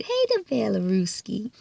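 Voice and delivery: soft unvoiced whisper, playful. Real, not acted. Vlogger whispering a cute aside to viewers. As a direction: whisper it teasingly like a secret.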